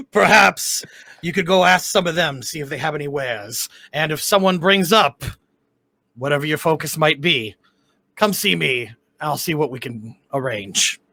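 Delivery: put-on loose fantasy Cockney-Australian accent; deliberate, lightly Australian tavern voice. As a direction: attempt a mild Australian accent. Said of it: "back to Australian".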